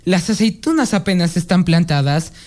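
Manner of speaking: put-on reciting an old Spanish farce; declaimed moral of an old play; dramatic recitation. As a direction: deliver the closing lines of a classic comedy.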